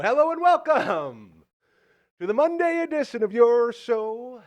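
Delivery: slow, booming hello and welcome; show host intro. Acted. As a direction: sell the show open like a TV host. Host restarts the show opening.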